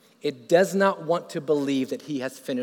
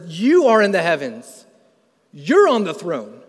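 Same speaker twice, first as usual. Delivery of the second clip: awed declaration; 2 semitones higher, 8 dB louder than usual. Retold or imitated. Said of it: "he looks up and he says".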